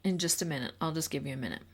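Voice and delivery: soft and calm, easing the volume down; a quiet, calm, reassuring demo for a frustrated student; calm teacher voice. Shown as a demonstration. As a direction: settle an agitated student gently. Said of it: "you can just calmly say".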